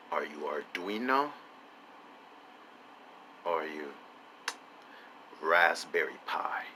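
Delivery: soft question ending in a whisper on Raspberry Pi; quiet mock-mysterious ask; hushed question. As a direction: drop to a secretive hush.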